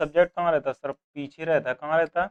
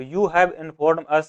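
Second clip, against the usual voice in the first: slow dictation; much slower than usual. Shown as a demonstration. Teacher reads example sentence.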